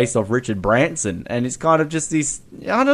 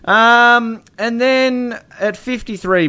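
high, louder rock-singer voice; impression of a famous rock frontman; 10 semitones higher, 4 dB louder, slower than usual. Podcast host mimics a famous rock singer for laughs. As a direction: belt it like a rock frontman. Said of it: that it was a nice impersonation of the band's singer.

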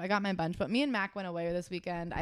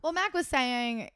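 ordinary talk

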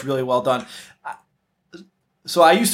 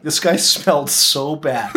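laughing; slower than usual. Retold or imitated. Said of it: "survivors being like".

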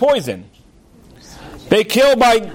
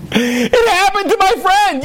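indignant outburst; 11 semitones higher than usual. Retold or imitated. Rabbi to cab driver, indignant shout. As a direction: throw his own words back at him.

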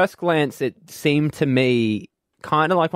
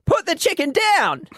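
much higher, slow dramatic alarm; mock urgent warning; 8 semitones higher, slower than usual. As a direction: shout it like a hammy ad.

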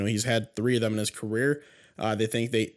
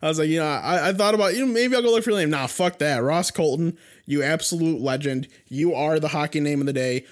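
excited hype; 3 semitones higher than usual. Real, not acted. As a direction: hype him up like a fan. Hyping the game-winning player.

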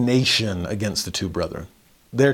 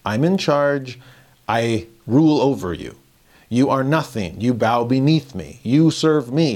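haughty ruler; 2 semitones higher, 3 dB louder than usual. Retold or imitated. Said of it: "the Gentile model of leadership".

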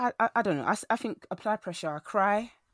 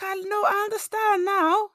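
laughing; 13 semitones higher, 9 dB louder, slower than usual. Acted. Laughing at her own sun joke.

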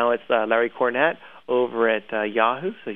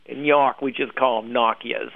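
bad New York accent. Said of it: "I can't do accents".

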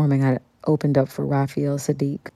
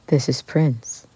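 Prince; slower than usual. Retold or imitated. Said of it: "this voice that says".

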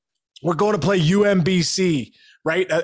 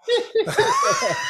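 high squealing laugh; shrill burst of laughter; shrieking laugh. Real, not acted. Laughing at wine joke.

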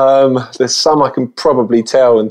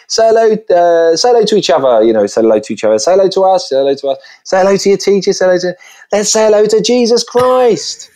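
put-on high, fast cheerleading call to the kids; hyped-up host; 9 semitones higher than usual. Entertainer urging the school assembly to say hello, high and pumped. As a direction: whip the children up, faster and faster.

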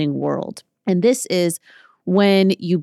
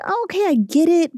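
higher, lightly mocking eager newbie; mock eager client; 11 semitones higher than usual. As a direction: play the hopeful new client, pitched up. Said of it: "you're like".

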